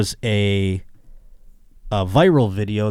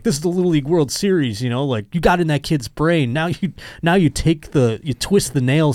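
higher, mildly indignant quote; lightly acted indignation; mock outrage; 5 semitones higher than usual. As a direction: imitate someone outraged, pitch raised. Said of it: "Dave Portnoy was outraged".

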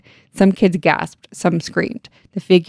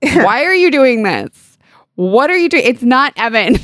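bewildered plea; 6 semitones higher, 3 dB louder than usual. Retold or imitated. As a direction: plead in disbelief, pitched up. Shannon's bewildered plea, retold.

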